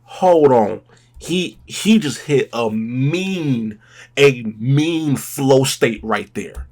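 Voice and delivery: slow, drawn-out praise with loud bursts; awed. Real, not acted. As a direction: savour each word in awe. Awed reaction to the flow.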